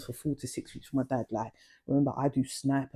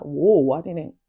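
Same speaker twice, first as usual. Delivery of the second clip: louder startled whoa; retold shock after the slap; shocked exclaim; 3 semitones higher, 6 dB louder than usual. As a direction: burst out in shock. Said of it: "I was like".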